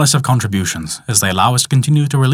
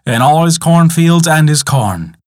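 unhurried storyteller reading a legend aloud; story narration. A narrator's reading. Narrator telling listeners the tale of magic singing, steady storytelling voice. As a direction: draw listeners into an old tale.

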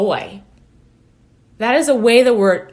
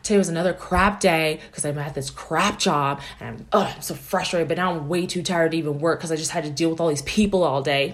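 mock cranky complaint; 5 semitones lower, faster than usual. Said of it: "the friend that goes home after being cranky all day".

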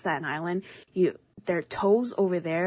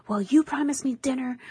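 higher voice, mildly put-out complaint; imitated pissed grandma; 7 semitones higher than usual. Grandma complaining about the promised dinner, imitated annoyance. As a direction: mimic an annoyed grandmother, pitched up. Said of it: "my grandma was pissed".

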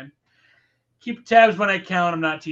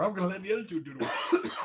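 laughing; 3 semitones higher, 8 dB quieter, faster than usual. Acted. Laughing wrestler boast.

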